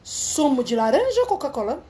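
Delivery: imitating a European Portuguese attendant; lightly put-on Portugal Portuguese; Portuguese accent. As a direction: offer it in a lisbon accent. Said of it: "cereja no bolo".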